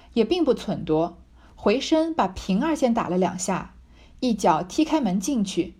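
slow, measured reading of the novel text; deliberate classical narration; reading the classic aloud. A narrator's reading. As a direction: read it like an old storyteller, taking your time. Reads the original novel text.

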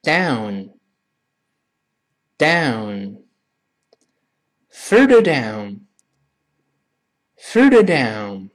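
very drawn-out teacher demonstration; slow model reading. Shown as a demonstration. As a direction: say it very slowly for learners to copy. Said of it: "我们先读一下这个词".

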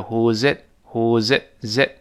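"who's it" run together, the z flowing into "it"; linked pronunciation. Shown as a demonstration. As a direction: link the z of "who's" straight onto "it". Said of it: "z跟后面it连到一块儿".

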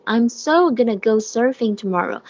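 SO given extra length and weight; emphasize "so" to show determination; stress on SO. Shown as a demonstration. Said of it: "是一个重读的啊".

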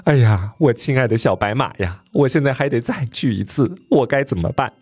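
plaintive, lightly acted weeping; a touch of tearful despair; mock crying. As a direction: moan helplessly as if in tears. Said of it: "哭着说".

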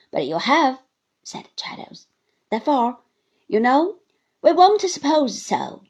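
loud, deliberate terms; firm Traddles. Acted. Traddles sets terms for Uriah, firm and loud. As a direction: lay down the law.

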